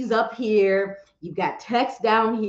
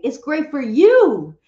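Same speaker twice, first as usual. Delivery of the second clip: polite dodge; 5 semitones higher, 7 dB louder, slower than usual. Retold or imitated. Friend dodging honest video feedback.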